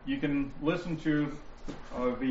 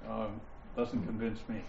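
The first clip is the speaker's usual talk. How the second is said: low, quiet skeptic's reply; unconvinced; 6 semitones lower, 8 dB quieter than usual. Acted. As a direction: mutter it as an unimpressed objector. Acting an unpersuaded opponent's reply.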